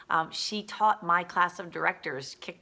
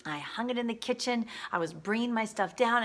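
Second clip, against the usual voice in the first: higher-pitched imitation of a panicked friend; retold freaking out; 5 semitones higher than usual. Roommate explaining how the suit got forgotten, mildly freaking out. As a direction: recount it in a mildly frantic, raised pitch. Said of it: "Betty is freaking out".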